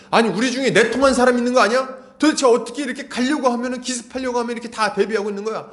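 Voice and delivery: high-pitched king grilling his men; exasperated king. Acted. King accuses servants of leaking his plans, exasperated. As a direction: play a frustrated king demanding answers. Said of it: "이 왕이 이러는 거예요".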